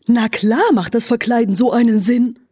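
wise owl. Acted. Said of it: "sprach der weise Uhu".

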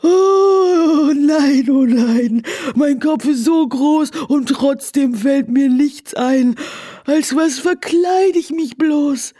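lamenting. Acted. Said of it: "klagte das Pferd".

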